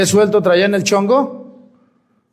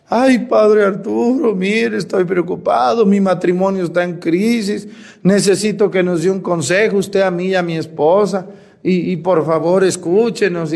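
slightly raised, put-on plaintive plea; mock near-tearful; 2 semitones higher than usual. Husband begging the priest for marriage advice, mock near-tearful. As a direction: imitate a worried husband almost crying. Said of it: "un audio casi llorando el señor".

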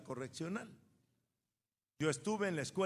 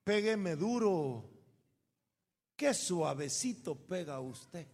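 cheeky taunt; 3 dB louder, slower than usual. Retold or imitated. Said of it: "Y yo le decía".

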